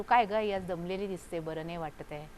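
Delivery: lightly acted gentle concern; gentle inquiry. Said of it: "आपण हळूच आधी विचारू".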